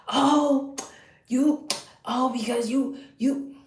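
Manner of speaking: lightly voiced high mocking splutter; mocking his yelling. Mocking how the ex yelled at her, high sputter. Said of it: "he started yelling at me".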